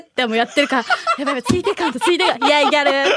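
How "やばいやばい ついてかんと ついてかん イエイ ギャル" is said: put-on hyper teen excitement. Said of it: "とか言って。".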